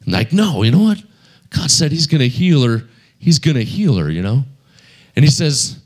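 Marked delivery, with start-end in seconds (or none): 0.3-4.4 defiant faith. Retold or imitated. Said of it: "he felt like".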